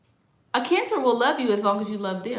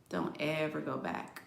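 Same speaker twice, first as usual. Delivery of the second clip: quiet repeat; 9 dB quieter than usual. Shown as a demonstration. Warning viewers off a Cancer ex, hushed echo. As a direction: let it drop to a hushed aside.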